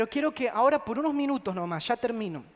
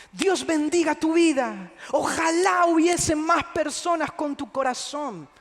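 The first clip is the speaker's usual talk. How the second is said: higher, louder, emotional gratitude; mock tearful blessing; 4 semitones higher, 4 dB louder than usual. Homeless man thanking a kind stranger, in a hammed-up tearful voice. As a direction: gush thanks like a moved beggar. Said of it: "comenzó a llorar".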